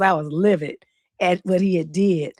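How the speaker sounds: ordinary talk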